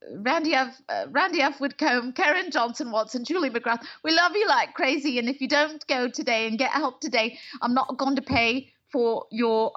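a hint of a British actress playing a caring but firm counsellor; loving ultimatum, lightly voiced and playful; the speaker as Brenda. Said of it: "This is her"

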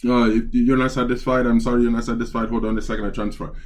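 lightly put-on Indian accent; mock Indian-accented customer service; imitated Indian accent. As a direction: imitate an Indian-accented phone agent apologizing. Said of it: "Dude had an Indian accent".

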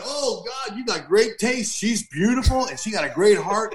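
gushing thanks, lightly played; awed, admiring praise, slightly slowed; mock delight. His delighted reply to God.

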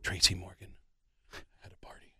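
secretive whisper, very soft. Retold or imitated. Agent telling the comic about the party, whispered. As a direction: drop to a hushed secret.

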